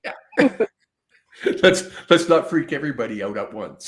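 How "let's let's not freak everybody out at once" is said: laughing. Real, not acted. Joking about freaking viewers out.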